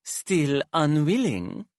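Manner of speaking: slow high taunt; drawn-out mocking question. Hypnos taunts slowly.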